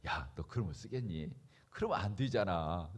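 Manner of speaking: low, soft inner voice chiding; gentle reproof. Acted. Holy Spirit pointing out a believer's fault, gentle low reproof. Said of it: "지적하시는 거예요".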